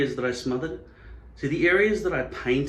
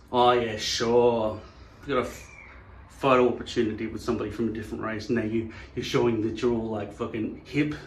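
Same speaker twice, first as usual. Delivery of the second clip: sarcastic disbelief; 3 semitones lower than usual. Acted. Accuser to someone with a friend of another race, sarcastic disbelief. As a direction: scoff at the excuse, low and dismissive.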